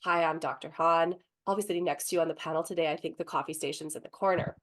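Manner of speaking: mild, composed calm; calmly. Retold or imitated. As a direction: answer him coolly and evenly. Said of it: "very calmly said".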